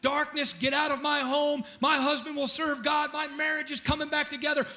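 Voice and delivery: mock-fervent command at a house; retold yelling declaration. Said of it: "I yelled at my house like a crazy person".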